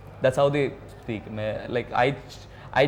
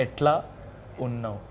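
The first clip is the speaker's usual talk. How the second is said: broken into parts; 4 dB quieter than usual. Shown as a demonstration. Singer repeats for puzzled host, "Etla" and "unnav" separated. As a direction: split it for a learner: "Etla ... unnav". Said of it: "I'm sorry, what?".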